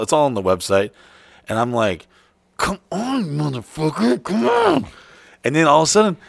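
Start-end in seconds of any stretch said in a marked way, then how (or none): 2.6-4.8 high, pleading come on; desperate plea. Retold or imitated. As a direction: coax it, rising higher. Pleading with his body.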